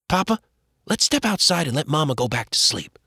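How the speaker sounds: put-on boy's voice. Joel urges Papa outside.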